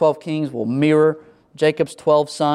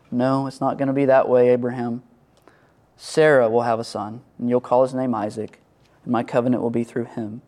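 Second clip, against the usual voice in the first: calm him like a good father would; gentle reassurance; 4 semitones lower than usual. Retold or imitated. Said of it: "gently reminds him".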